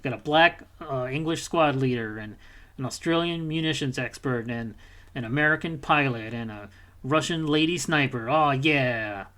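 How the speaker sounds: a sarcastic, slow send-up of a cool squad; mock boastful. Gamer mocking the squad's forced cool, mock boastful. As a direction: sneer it as the game's smug heroes. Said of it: "they try to make you be like".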